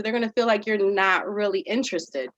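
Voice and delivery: usual speaking voice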